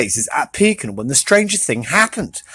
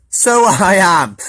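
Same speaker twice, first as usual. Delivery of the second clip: delighted; slower than usual. Acted.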